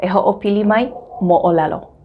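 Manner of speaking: normal talking voice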